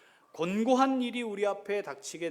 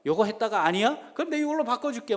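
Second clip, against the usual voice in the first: mock fickle God; 8 semitones higher, 9 dB louder, faster than usual. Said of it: "하나님 좀 바보 같아가지고".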